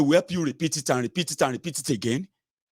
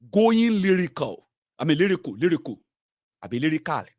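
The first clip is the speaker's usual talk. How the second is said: mock Nigerian accent. Shown as a demonstration. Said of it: "which accent I should use".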